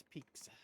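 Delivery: "pizza" said as PEEK-suh; imitated pronunciation. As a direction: put a K before the S in "pizza". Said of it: "she says pizza".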